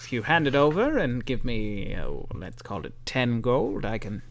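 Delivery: lightly voiced old shopkeeper lady; a hint of a creaky old woman; silly old lady voice. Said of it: "the silly old lady voice".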